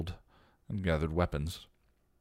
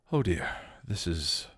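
stammering; 4 semitones higher than usual. A narrator's reading. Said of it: "Giles stammered".

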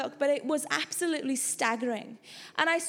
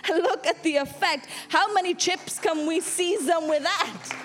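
louder rising preacher cadence; rally the church with each together; stirring sermon climax; preaching at full force; 4 dB louder than usual. Acted.

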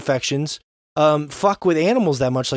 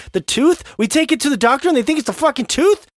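incredulous; 8 semitones higher than usual. Retold or imitated. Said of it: "We're like".

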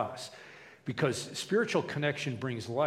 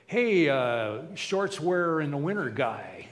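loud, casual pretend greeting; hammed-up hello across to someone; mock hailing; 2 semitones higher, 5 dB louder, slower than usual. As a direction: hail someone loudly by a clumsy label. Acted impersonal greeting at church.

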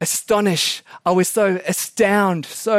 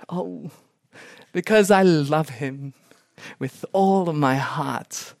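mock lovestruck; 3 semitones lower, slower than usual. Bride tells interviewer why she is marrying, mock lovestruck. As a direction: draw out the ending, tenderly put on. Acts bride's declaration of love.

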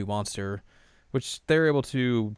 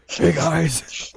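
breezy Mamoru; 6 semitones higher, 6 dB louder than usual. Retold or imitated. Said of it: "It's like".

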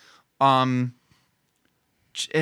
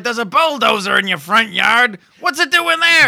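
high, loud incredulous yell; hammed-up shocked mom shouting into the phone; mother on phone; 6 semitones higher, 7 dB louder than usual. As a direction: holler the question, climbing higher. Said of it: "where she's like".

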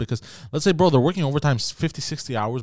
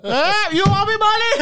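high mock Turkish accent. Mocking Turkish rich man.

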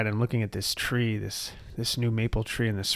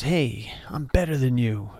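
whispered ego voice. Retold or imitated. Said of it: "false sense of self that says".

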